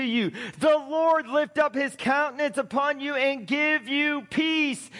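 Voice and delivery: solemn, proclaimed blessing, lines swelling out; scripture reading. Acted. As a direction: read it like a benediction over the people. Reads priestly blessing aloud.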